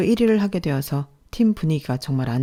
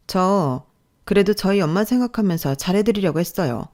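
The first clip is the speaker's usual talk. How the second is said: indignant, restrained reproach; angry mentor; 3 semitones higher than usual. Acted. Mentor to apologising trainee, restrained anger. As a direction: correct and reproach a junior colleague. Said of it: "그때 저에게 화를 내더군요".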